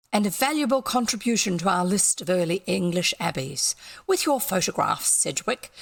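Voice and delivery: a hint of a grand old antiquarian; pompous scholar. Doctor lecturing Sedgwick on their treatise, lightly pompous.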